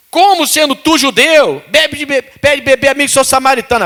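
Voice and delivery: a hint of a questioning Samaritan woman; voicing the Samaritan woman. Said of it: "Disse-lhe a mulher".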